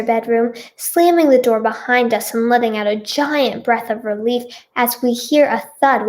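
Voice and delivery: measured, clearly projected storytelling; story narration. A narrator's reading. Reader tells her own story to listeners, narrating. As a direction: read it out like an audiobook.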